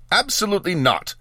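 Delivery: high, emphatic final refusal; great finality. A narrator's reading. Mage cuts off his apprentice, with great finality. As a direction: refuse with a wizard's absolute finality. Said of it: "I said with great magely finality".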